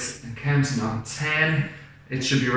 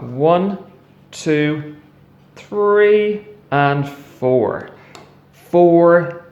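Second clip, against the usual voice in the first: excited count; 4 semitones higher, 5 dB louder, much slower than usual. Real, not acted. Counting pizza slices.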